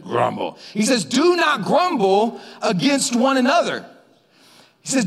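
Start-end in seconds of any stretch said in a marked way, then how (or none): 0.0-0.6 low, mock-angry growled word; a touch of put-on anger. Shown as a demonstration. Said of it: "You gotta say it like you're angry". 1.0-3.8 "Do not grumble" slow and high, each word weighted; stern scriptural order, stretched out; emphatic command. Retold or imitated. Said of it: "grabbing you by the metaphorical lapel and saying".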